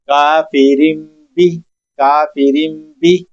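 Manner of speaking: کافرین بھی slowly, nun turned to m, kafirim bi; iqlab demo. Shown as a demonstration. Teacher showing iqlab on the example. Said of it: "نون ساکن کو میم کے ساتھ بدل کر پڑھنا ہے".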